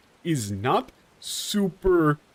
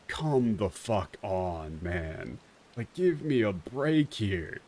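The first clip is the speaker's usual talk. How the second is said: weary exasperation; 4 semitones lower, 5 dB quieter, slower than usual. Retold or imitated. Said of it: "It really is just, like".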